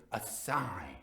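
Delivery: hushed secretive whisper. A narrator's reading. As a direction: breathe it like a secret.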